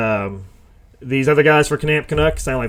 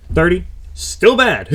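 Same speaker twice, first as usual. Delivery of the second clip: slow, higher, shouted still bad; exasperated shout; 4 semitones higher, slower than usual. Real, not acted. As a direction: drive the point home with a yell. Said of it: "I'm getting angry".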